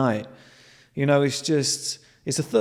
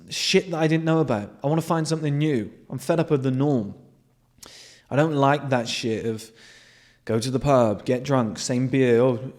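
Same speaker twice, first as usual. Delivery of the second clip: usual speaking voice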